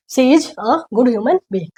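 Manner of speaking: slow whispered model sentence. Shown as a demonstration. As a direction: breathe it out slowly as a whisper. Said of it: "थोड़ा अच्छा हो जाएगा". (धीमी फुसफुसाहट में)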